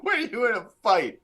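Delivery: laughing up high. Real, not acted. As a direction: laugh it out mockingly. Laughing tease.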